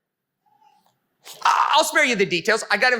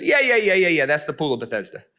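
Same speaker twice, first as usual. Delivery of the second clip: uninterested; 3 semitones lower than usual. Retold or imitated. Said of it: "this is how uninterested he was".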